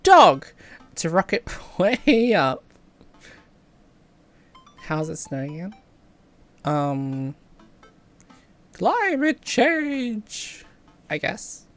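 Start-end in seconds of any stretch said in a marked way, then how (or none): 0.0-0.5 sudden loud high yell; excited shout; yelling dog. Shown as a demonstration. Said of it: "interrupt conversations to yell". 8.8-10.6 drawn-out deadpan. Real, not acted. Deadpan answer to snow question.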